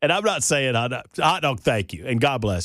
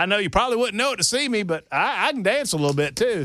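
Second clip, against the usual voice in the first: city guy voice; 8 semitones higher than usual. Retold or imitated. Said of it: "The guy goes".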